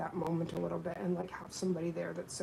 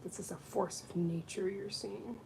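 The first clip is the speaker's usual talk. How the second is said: ordinary talk, nothing marked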